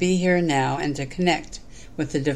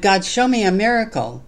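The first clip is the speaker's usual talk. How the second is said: higher, louder plea, read aloud; restrained shout; 5 semitones higher, 4 dB louder than usual. Acted. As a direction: cry out to God with a storyteller's raised voice. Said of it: "And then I shouted".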